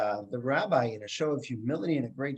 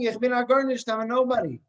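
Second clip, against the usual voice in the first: mock scream; 8 semitones higher, 4 dB louder than usual. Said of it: "starts screaming the same thing".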